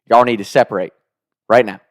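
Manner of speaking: a loud, stern lunch-lady command; stern order. Retold or imitated. Lunch lady ordering the boys to separate, loud and stern. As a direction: bark it like a strict lunch monitor.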